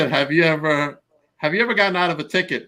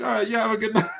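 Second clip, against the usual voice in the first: imitating the cop; 8 semitones higher, faster than usual. Cop sending him off.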